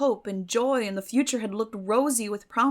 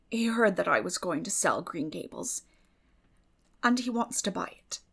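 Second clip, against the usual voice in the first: ordinary delivery, nothing marked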